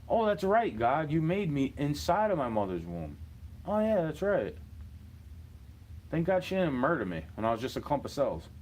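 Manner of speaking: high, bright-eyed "oh, that's right" realization; imagined newborn thanking God. Retold or imitated. Soul recalling the womb, speaking to God in a high amazed voice. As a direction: gush it like a soul just remembering.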